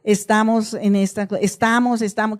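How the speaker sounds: a touch of defeated people; mild hopeless lament. Retold or imitated. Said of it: "¿Qué decía el pueblo?".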